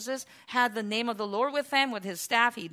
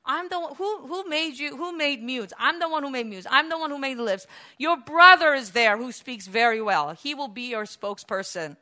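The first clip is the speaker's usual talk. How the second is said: voice of God; 4 semitones higher, 5 dB louder than usual. Acted. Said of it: "So what did God say?".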